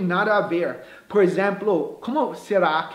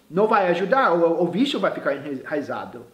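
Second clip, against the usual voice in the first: ordinary delivery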